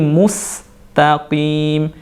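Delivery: "mustaqim" with a clear, sharp s; slow "mustaqim" with a crisp sin. Shown as a demonstration. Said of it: "huruf sin". ("mustaqim" dengan sin yang jelas)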